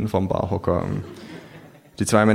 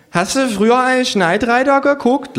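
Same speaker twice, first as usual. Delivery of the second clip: put-on high, loud drunken slur; slurring kangaroo; 5 dB louder than usual. Drunk kangaroo asking about Knight Rider, slurring. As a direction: slur it with a laugh. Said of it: "lallt das Känguru".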